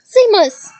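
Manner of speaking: teacher roaring a name; roared name. A narrator's reading. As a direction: roar the student's name across the room. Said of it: "roared Professor Lupin".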